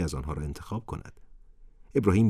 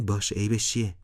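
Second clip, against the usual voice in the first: happy; 4 semitones higher than usual. A narrator's reading. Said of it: "ابراهیم با خوشحالی گفت".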